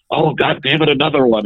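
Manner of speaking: half-volume yell, imitating someone exasperated; mild mock yell. Passenger following the game yells to the plane, mock yell. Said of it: "someone would yell".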